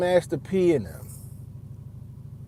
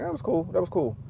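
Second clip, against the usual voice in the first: half-hearted praise; 3 semitones higher, 4 dB quieter than usual. Retold or imitated. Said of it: "I'm like".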